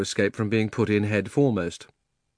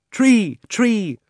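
chorus of voices; 12 semitones higher, 6 dB louder than usual. Acted. Dozen voices answer.

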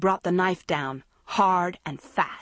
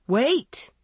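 higher, more forceful "wait"; raised voice, demanding a halt; insisting, louder; 7 semitones higher, 4 dB louder than usual. A narrator's reading. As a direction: insist urgently. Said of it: "Andrea insisted, louder".

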